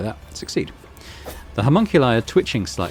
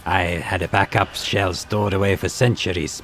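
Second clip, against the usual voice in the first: arrogant homunculus voice; slower than usual. Acted. Tavantius corrects the Drukhari.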